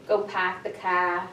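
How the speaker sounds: "Go pack the car" on one level pitch, no rise or fall; flat intonation. Shown as a demonstration. Teacher showing the flat Boston tune to students. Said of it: "what's the intonation like".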